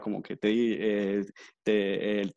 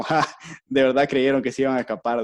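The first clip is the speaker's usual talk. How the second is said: mocking villain laugh; 2 semitones higher, 5 dB louder than usual. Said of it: "salen ahí ellos riendo".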